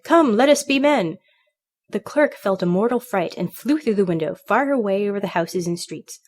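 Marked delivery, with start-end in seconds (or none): 0.0-1.2 high, loud, slow cry; loud storybook squawk of a catchphrase; parrot's cry. A narrator's reading. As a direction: cry it out in alarm, stretching the words. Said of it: "flapped his wings and cried".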